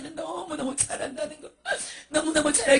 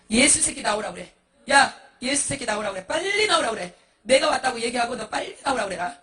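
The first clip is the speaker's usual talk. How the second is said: loud, insistent demands, rising on the repeat; defiant challenge; 4 dB louder than usual. Acted. Monk in hell demanding Jesus come out, loud defiance. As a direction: call him out belligerently.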